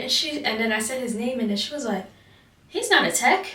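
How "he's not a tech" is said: loud, high mock yell; indignant, raised-pitch imitation of a superior; imitated angry correction. Retells instructor's angry correction.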